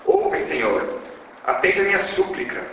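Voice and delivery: rising plea with pitch lifted; tragic heroine lament. Acted. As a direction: beg the god for mercy. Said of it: "e se lamenta".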